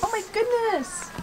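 soft laughing exclamation. Real, not acted. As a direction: laugh through the words. Laughs at the cat.

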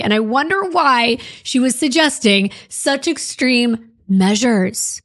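dry mock wonder, pitch lifted; sarcastic. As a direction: fake puzzlement, tongue in cheek. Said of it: "I'm being sarcastic".

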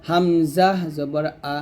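"হামজা" slowly, "আ" from bottom of throat; throat letter. Shown as a demonstration. Teacher modelling for learners, "হামজা" slow from the throat. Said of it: "হলকের শুরু থেকে উচ্চারণ".

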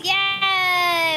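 loud, high, long yay; excited cheer. Real, not acted. Player celebrating arrival with the group, excited cheer.

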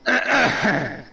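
lightly put-on Irish accent; a passable stab at an Irish brogue. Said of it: "I think my Irish accent is horrible".

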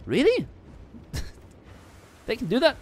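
high laughing disbelief; incredulous. Real, not acted. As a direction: ask it in laughing shock. Amazed at rat sitting.

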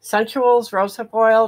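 speaking without dentures; gummy speech, no teeth in; toothless. Real, not acted. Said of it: "I can't talk good without my teeth".

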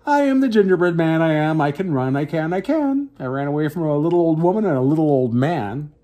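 lightly voiced cheeky brag; boasting gingerbread man. Cookie boasting to the cat, lightly voiced. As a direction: gloat with a teasing lilt. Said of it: "laughed and boasted".

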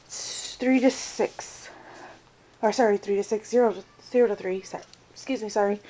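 talking through hiccups. Real, not acted. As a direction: catch on small hiccups between words. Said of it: "Got the hiccups".

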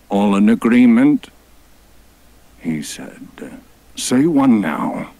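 high, loud commanding god; hammed-up deity. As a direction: call the crowd to agree. God addresses the herd.

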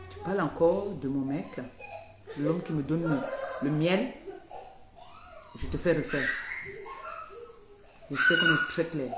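threat with laughter through it; warning off the rival about her man, laughing. Real, not acted. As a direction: warn her while laughing.

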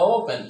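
"ওপেন" with a drawn-out oh-oo; long O. Shown as a demonstration. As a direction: stretch and round the first vowel of "ওপেন". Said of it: "ও দিয়ে বলে কি".

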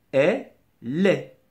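"Est", short gap, "lait" with the l leading; separated syllables. Shown as a demonstration. Teacher showing how elle est divides, split demonstration. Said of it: "Tu vas séparer".

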